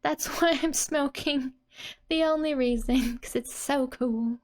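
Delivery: a hint of a proud kid explaining herself; explanatory tone. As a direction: playfully justify smoking, half laughing. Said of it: "the explanatory tone saying".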